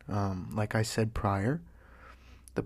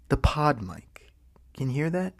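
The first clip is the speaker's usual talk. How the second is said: whispering; 4 semitones higher, 3 dB louder than usual. Shown as a demonstration. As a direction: whisper it into the mic. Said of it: "Can you hear the whisper?".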